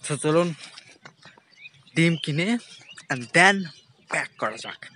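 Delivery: toothbrush in mouth; while brushing teeth. Real, not acted. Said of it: "brush করতে করতে হাঁটতেছি".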